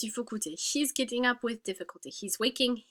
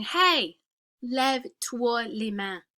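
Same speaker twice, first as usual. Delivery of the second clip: command; much slower than usual. Pretend. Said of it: "if I'm commanding her".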